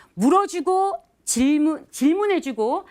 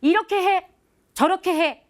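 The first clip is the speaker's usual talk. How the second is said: higher and louder barked orders; bossy commands; 6 semitones higher, 4 dB louder than usual. Retold or imitated. Boss shown ordering staff around, in mock commanding bursts. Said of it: "직접적으로 명령하지 않고".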